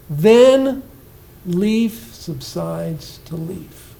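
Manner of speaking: slow, hushed recital with a pause after Then; poem reading. Shown as a demonstration. Teacher reads the central line aloud to the class, slowly. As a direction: read the line slowly, letting it sink.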